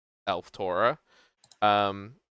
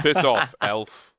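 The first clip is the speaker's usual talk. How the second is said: gruff dismissal; 5 dB louder, slower than usual. Acted. Dwarf god dismisses elf.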